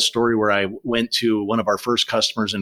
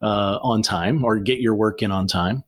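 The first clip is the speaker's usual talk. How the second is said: polite request; slower than usual. Shown as a demonstration. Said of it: "but I can say".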